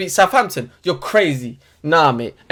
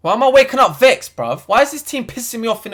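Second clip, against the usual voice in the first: raised, louder, fed-up outburst; exasperated; 4 semitones higher, 4 dB louder than usual. Real, not acted. Fan fuming at his team first thing, loud exasperation. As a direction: vent it loud and high, baffled at himself.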